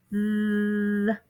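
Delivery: th with tongue between teeth; tongue sticking out. Shown as a demonstration. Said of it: "my tongue is out right now".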